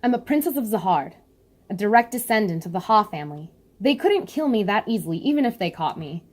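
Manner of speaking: lightly voiced proud princess, calm and firm; a hint of a determined princess explaining to Evan; Yuri voice. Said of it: "back to Yuri".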